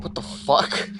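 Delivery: breathy whisper then a hushed laugh; whispered disbelief. Real, not acted. Reacting to the game mid-story, whispering in disbelief. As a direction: murmur it under your breath.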